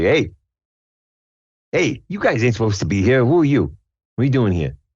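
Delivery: demanding, forceful tree creature voice. Voicing a treant guard who finds the party at the entrance: treant guy voice. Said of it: "the treant guy's like".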